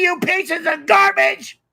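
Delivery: slow, furious insult, pitched high; angry outburst. Real, not acted.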